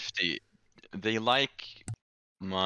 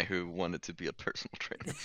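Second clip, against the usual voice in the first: whispered aside; 2 semitones lower, 5 dB quieter than usual. Real, not acted. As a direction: hush it out as an aside. Gossiping aside about absent friend.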